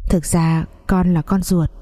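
slow, choked-up confession; words caught in the throat. Acted. Stepfather slowly admits the truth, choked voice. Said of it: "nghẹn giọng nói".

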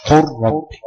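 "قل ربي" said as "قرّبي", lam assimilated into r; "قل ربي" with no audible l, a geminated r; merged lam into r. Shown as a demonstration. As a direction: roll straight from the q into a doubled r in "قل ربي". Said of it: "هنقلب اللام لراء ونضغم".

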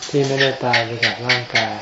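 ordinary talk

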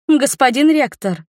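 cheerful loud call to the rector; beaming greeting. A narrator's reading. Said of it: "лучезарно просияла она".

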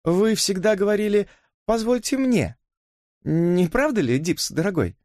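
mock him sweetly. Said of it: "с издёвкой в голосе". (с издёвкой, голос выше)

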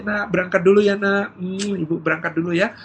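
lightly acted parent's farewell; parent saying goodbye. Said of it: "mendoakan gitu ya". (ibu pamit kepada anak)

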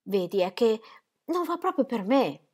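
più alta, quasi in lacrime; supplice. Acted. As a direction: implora trattenendo il pianto. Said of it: "con voce e occhi supplici". (la moglie supplica il marito, sull'orlo delle lacrime)

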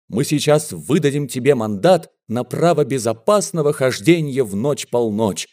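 ordinary delivery

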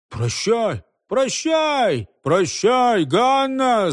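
mild crying out. A narrator's reading. Several lads call farewell to Ганна, mild high cries. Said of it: "закричало несколько парубков".

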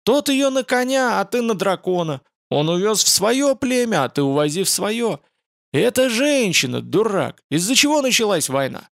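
high, raging outburst; furious yelling. Acted. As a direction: bellow it in fury. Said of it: "заорал Радша в бешенстве".

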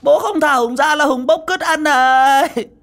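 put-on high, loud childish threat; loud high madman taunt; madman yelling. A narrator's reading. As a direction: holler at dad like a crazed child. Madman threatening his father.

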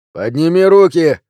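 loud, high police order; demanding. A narrator's reading. Second policeman demanding hands up, loud and high. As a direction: demand it at full voice. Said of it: "требует другой полицейский".

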